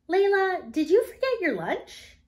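a kindly teacher checking on a student; teacher's voice. A narrator's reading. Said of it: "asked Missus Pensworth".

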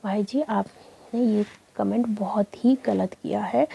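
respectful reproach. Retold or imitated. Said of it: "respect के साथ ही बोलूँगी".

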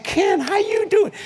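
high, drawn-out hello to a friend; retold friendly call; hearty greeting. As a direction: greet an old friend slowly and gladly.

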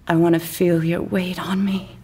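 breathless. Acted. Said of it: "she says breathlessly".

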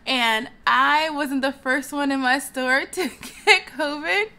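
laughing through it, relieved; relieved laugh about dodging covid. Real, not acted. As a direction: giggle it out.

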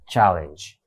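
チャレンジのチャを強く; 頭を押して言う; 先頭に強勢. Shown as a demonstration. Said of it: "戦闘だから". (第一音節に強勢)

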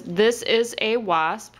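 slow, word by word; slow reading demo. Shown as a demonstration. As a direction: read it out slowly for the child. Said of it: "You point to the words".

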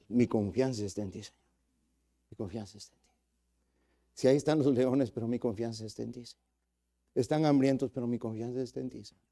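soft, hushed words of trust to God; a low whispered-feeling devotion; quiet trusting prayer. Acted. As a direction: murmur it like a prayer among lions. Daniel praying in the lions' den.

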